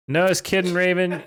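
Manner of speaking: high-pitched mock tantrum voice; ranting fanfiction author. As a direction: rant in a high put-on voice. Same author voice.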